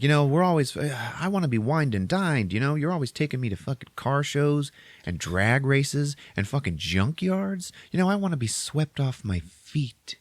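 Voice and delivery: put-on high, swooping Valley Girl whine; hoity-toity Valley Girl. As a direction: complain like a pampered Valley Girl. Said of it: "hoity-toity Valley Girl type".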